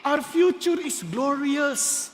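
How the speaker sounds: slow, weighty declaration; slow proclamation. Acted. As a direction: lay each word down slowly. Pastor proclaiming slowly.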